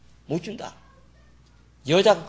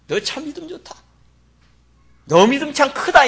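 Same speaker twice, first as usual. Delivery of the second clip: rising praise; 8 semitones higher, 6 dB louder than usual. Acted. God commending Abraham's faith, building praise. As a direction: lift it into a proud booming commendation.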